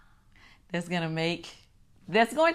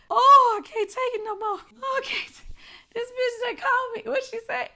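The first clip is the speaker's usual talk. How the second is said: exasperated disbelief. Real, not acted. Reliving the insult, exasperated.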